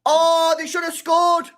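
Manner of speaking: loud, high-pitched outcry; disbelieving shout. Real, not acted. Fan protesting that a chance was missed, disbelieving shout. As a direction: cry out in disbelief.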